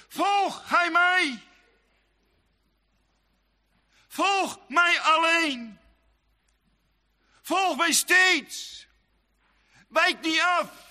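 slow, high, shouted call; a preacher booming Christ's call to follow; thundering command. Acted. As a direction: proclaim each word like a summons from the pulpit.

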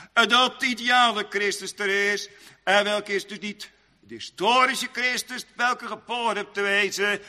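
preaching. Real, not acted. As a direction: preach it in a high, steady intoning voice. Preaches in raised chant.

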